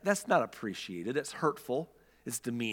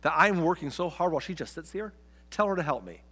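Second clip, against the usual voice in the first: mock whiny complaint; 4 semitones higher than usual. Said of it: "And Martha's like".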